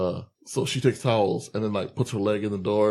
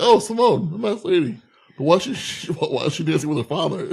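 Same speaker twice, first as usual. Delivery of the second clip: mock Dundee voice; 3 semitones higher than usual. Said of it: "It's like".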